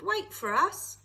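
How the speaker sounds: high and loud, calling after him; shouted. A narrator's reading. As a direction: shout after the running boy. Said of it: "they shouted".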